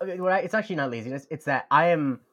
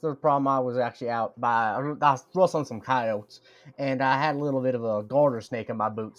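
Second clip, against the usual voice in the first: mock cowboy accent. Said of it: "I can't really do the accent".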